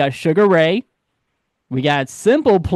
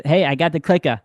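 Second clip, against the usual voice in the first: put-on Boston accent. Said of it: "I can't do a Boston accent".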